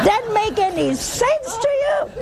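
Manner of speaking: laughing through the question, pitch jumping high; can barely get the words out for laughing; amused disbelief breaking into laughter. Real, not acted. Mocking horoscope believers, laughing.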